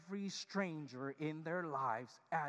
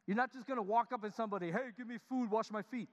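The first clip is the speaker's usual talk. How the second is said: mock rude stranger; 5 semitones higher, 3 dB louder than usual. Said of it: "You're not gonna say stuff like that".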